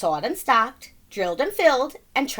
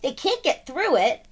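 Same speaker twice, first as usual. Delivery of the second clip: triumphant; 4 dB louder than usual. Acted. McGreely gloating over the bunnies, loud and triumphant. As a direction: crow about it. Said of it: "he exclaimed".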